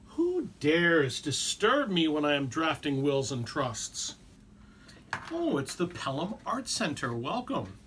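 slow, booming menace; dragon voice. Pretend. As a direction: growl it like a dragon guarding its lair. Booming intruder challenge, then greeting.

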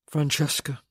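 strange, hollow man's tone; hollow and sharp. A narrator's reading. Man addressing the woman who hurt him, hollow and sharp. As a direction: say the name sharply, with an empty ring. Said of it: "his tone was strange, hollow and sharp".

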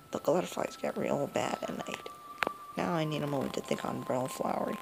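lightly voiced granny, turning grim; a hint of a granny vowing revenge; old grandma voice. Granny warning the player, then grim.

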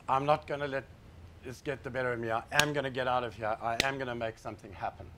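low, softened self-talk; quiet resolve. Retold or imitated. Speaker telling himself to get out, quiet resolve. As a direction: say it low and soft, to yourself.

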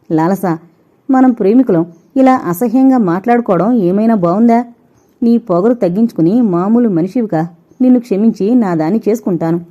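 pitiful plea. Acted. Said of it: "జాలిగొలిపేలా అర్థించాడు Anurag".

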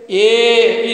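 one long, steady "A" with no glide; wrong vowel demo. Shown as a demonstration. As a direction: hold "A" as a pure vowel, without any y-ending. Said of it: "There is no A in English language".

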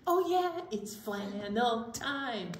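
cheerful announcing. Real, not acted. Co-host kicking off flannel time for the kids, cheerful announcing. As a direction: announce it with glee. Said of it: "cheerful announcement".

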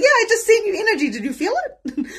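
high, loud, laughing confirmation; excited reply. Retold or imitated. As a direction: re-enact a giddy yes, rushing it out. Excited reply to amazed friends.

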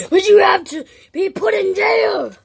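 high, loud judgment; hammed-up judge shouting; sentencing shout. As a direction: boom the sentence. Sentencing a prisoner.

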